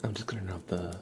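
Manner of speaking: whisper. Real, not acted. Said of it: "my soft speaking and whispering".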